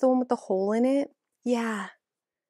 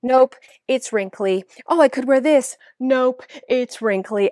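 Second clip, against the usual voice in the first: mock frustrated; 3 semitones higher, 6 dB louder than usual. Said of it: "I'm, like, frustrated 'cause I'm like".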